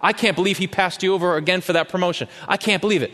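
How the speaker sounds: high, outraged disbelief; indignant sympathy. Retold or imitated. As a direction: egg on the grievance. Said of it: "You should be really ticked off about".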